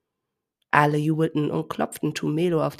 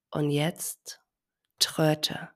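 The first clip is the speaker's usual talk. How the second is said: whisper; much slower than usual. Acted. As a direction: whisper the cue gently. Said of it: "flüsterte seine Omi".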